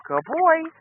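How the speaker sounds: squeaky praising a dog. Real, not acted.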